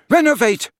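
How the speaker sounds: high, loud spell cry. A narrator's reading. Harry crying a spell at Dumbledore's chest. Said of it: "he cried".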